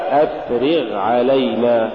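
أفرغ علينا with a clear, lighter gh after i; correct ghayn. Shown as a demonstration. Tajweed teacher giving the example, correct ghayn. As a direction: sound the gh ending أفرغ. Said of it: "والصواب".

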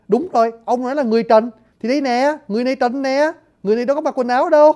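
sprite's glee. Retold or imitated. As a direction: rush the last line out as a mocking sprite. Ma trời voiced, joking aloud. (giọng yêu tinh hí hửng, cao và nhanh)

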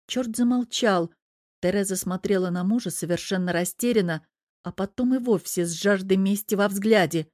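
ordinary delivery, nothing marked

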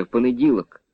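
usual speaking voice

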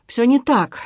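breathed-out protest; exhaled cry. Acted. Wife protests to husband, exhaled. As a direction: push it out on one breath. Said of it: "Выдохнула она".

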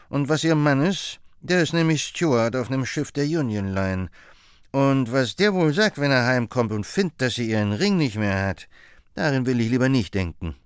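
a lightly voiced old woman, eager to explain; alte Frau. Old woman speaks, narrator voices her. (leicht höher gesprochene alte Frau, eifrig erzählend)

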